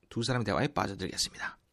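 usual speaking voice

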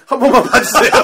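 high, loud plea breaking into laughter; mock begging. Man kneeling before high school students, hammed-up begging. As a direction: beg for mercy, cracking up. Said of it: "갑자기 무릎을 꿇더니".

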